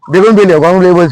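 বেগুনবিলিয়া, গগনবিলিয়া with "begun-" and "gogon-" for "bougain-"; mispronounced bougainvillea. Real, not acted. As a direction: garble bougainvillea two ways, বেগুনবিলিয়া then গগনবিলিয়া. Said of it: "উচ্চারণ করে ফেলি". (বেগুনবিলিয়া, গগনবিলিয়া, বোগেনভেলিয়ার দুরকম ভুল উচ্চারণ)

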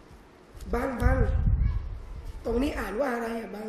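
slow, soft wife's question, a hint of pretend confusion; wife asking husband. Wife pretends to stumble in Quran, asks husband softly. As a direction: coax him gently, slowly. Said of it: "พี่น้องหยุด".

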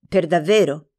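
"Per davvero?" asked with a falling, doubting tone; "Per davvero?" as a mild doubting question; doubtful question. Acted. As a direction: ask "Per davvero?" as if hard to believe. Asking in disbelief.

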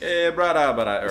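loud, high Hawaiian pidgin accent. Shown as a demonstration. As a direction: say it like a Hawaiian local. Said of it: "a Hawaiian".

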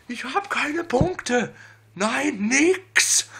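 high, frustrated outburst; whining in rising anger; berserk rage. Real, not acted. Frustrated complaint. (hoch und wütend)

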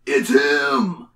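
loud, urgent yell of recognition; sudden accusing shout. A narrator's reading. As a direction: yell it out as a gang member. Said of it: "yelled one of the gang".

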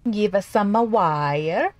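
slow, hammed-up fake Italian accent; cartoon Italian accent, badly faked; horrible Italian accent. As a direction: ham up a bad Italian accent, stretching wire. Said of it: "That was a horrible Italian accent".

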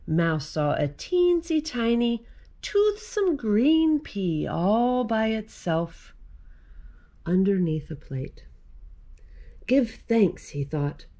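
put-on lively read-aloud for children; story narration. A narrator's reading. Reading the mouse picture book to children, lively read-aloud. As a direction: tell the mouse tale to little listeners.

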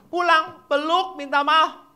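high, loud urging; rousing priest command. Acted. Priest orders children to hug their parents, high loud urging.

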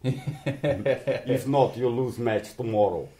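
slow mock German mafia accent; menacing gangster with a German accent. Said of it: "That's not a bad German accent".

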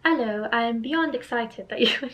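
a light pretend British accent; mild mock British accent. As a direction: read the letter in a playful British accent. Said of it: "pretend to give him a British accent".

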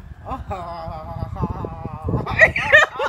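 long low wail breaking loud; drawn-out exasperated groan; upset wail. Real, not acted. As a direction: wail out your frustration, swelling at the end. Upset wail over car.

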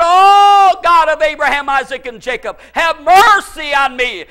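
long, high, loud Oh opening a fervent plea; crying out. Retold or imitated. Preacher as the dying king praying for his life, crying out. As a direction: wail to God in full voice, then implore. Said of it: "And he cried out".

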